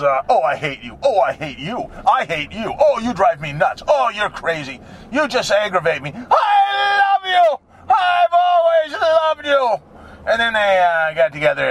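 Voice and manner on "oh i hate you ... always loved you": mock movie lines. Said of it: "But it was".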